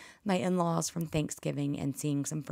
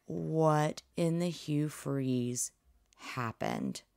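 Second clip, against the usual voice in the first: mock exasperation; 4 dB quieter, much slower than usual. Remembering the Arkansas play, slow mock exasperation. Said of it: "I was just like".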